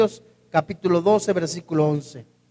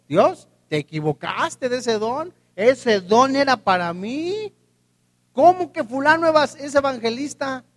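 mock arrogant complaint; 5 semitones higher than usual. Arrogant believer complaining to God.

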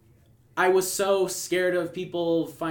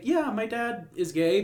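boastful and proud, a little higher; proud bragging; 5 semitones higher than usual. Retold or imitated. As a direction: show off the news proudly. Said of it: "it got a little braggadocious".

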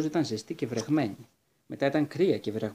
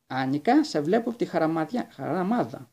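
calling out; 4 semitones higher, 4 dB louder than usual. Acted. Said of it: "φώναξε η Πίπη".

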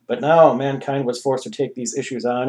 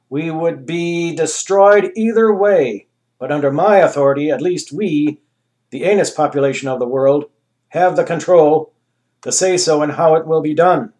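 grand ruler; 3 semitones higher, 6 dB louder than usual. Acted. Anus voice held.

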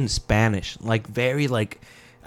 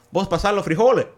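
higher, a hint of Caribbean Spanish lilt; Caribbean Spanish accent; 6 semitones higher, 4 dB louder, faster than usual. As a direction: ask mom in a mild Caribbean Spanish accent. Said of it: "You sound Caribbean as fuck".

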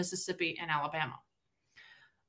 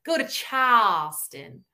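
broad, drawn-out Southern drawl; Southern US accent; slower than usual. Acted. Imitating Southern speech of neighbors.

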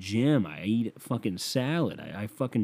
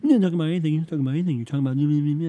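put-on higher and louder scornful girl voice; mock girlfriend; 6 semitones higher, 6 dB louder, much faster than usual. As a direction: scoff like the dismissive girlfriend. Mimicking girlfriend attacking.

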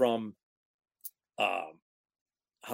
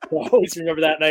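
laughing; 5 semitones higher, 8 dB louder, much faster than usual. Real, not acted. Laughing at the memory.

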